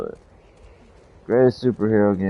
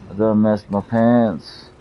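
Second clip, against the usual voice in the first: mock panic; 5 semitones higher, 8 dB louder than usual. Mock panic over the gate.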